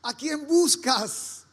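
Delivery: slow, tender asking; gentle question. Retold or imitated. Risen Jesus to weeping Mary, slow and tender. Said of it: "le dice".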